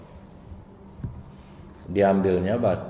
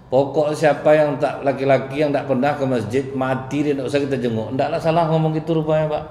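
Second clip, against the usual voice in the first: raised preaching; 5 semitones higher, 4 dB louder than usual. Real, not acted. Preacher raises voice on harsh view.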